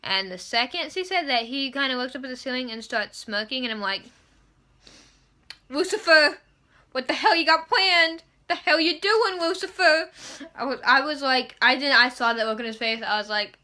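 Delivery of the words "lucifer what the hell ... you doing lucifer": raised, louder call at Lucifer; calling him out, pitched up; exasperated shout at the screen; mock yell at the TV. Yelling at TV about Lucifer.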